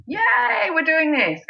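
high cheering yay; imitating an excited audience; mock cheer. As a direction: squeal it like an excited fan. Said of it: "showing their enthusiasm".

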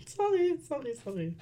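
choking on a drink; sputtering apologies mid-choke. Real, not acted. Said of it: "Ich hab mich verschluckt".

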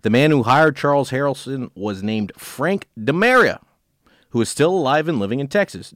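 measured true-crime read-aloud; story narration. A narrator's reading. Host reads a case to co-host, story narration.

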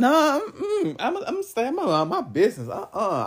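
high, breaking into laughter; a neighbour laughing about staying out of it, high and giggly; giggling neighbour. Acted. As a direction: laugh while backing out of it.

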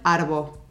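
"arbo" said slowly, clipped Aussie slang for afternoon; slow Australian "arbo". Shown as a demonstration. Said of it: "en vez de decir afternoon".

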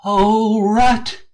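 high frightened cry; a scared little animal's relieved cry; crying out in relief. A narrator's reading. Mole crying out to Rat after his fright, high shaky relief. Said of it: "he cried".

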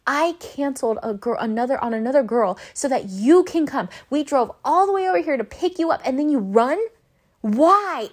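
mildly heated mock complaint; pissed off. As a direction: retell a friend's annoyed rant, rising to the end. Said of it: "He is pissed off".

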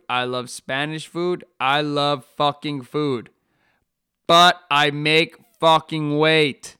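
loud, slow, hammering each line; ranting loudly. Real, not acted. Fighter shouting that he still makes weight, loud rant. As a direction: list your cravings, then slam the point home. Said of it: "Sorry about that rant".

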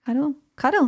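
playful high Cuddle mimicry; mimicking her curl. Shown as a demonstration. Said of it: "That's what I say".

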